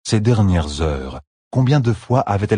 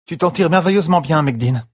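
higher, dry-throated praise; croaked; 10 semitones higher than usual. A narrator's reading. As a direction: croak out the encouragement. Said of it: "croissa Fail". (encouragement croassé, gorge sèche)

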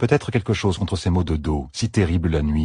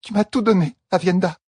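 choked voice; 12 semitones higher than usual. A narrator's reading. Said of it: "sa voix s'étrangla".

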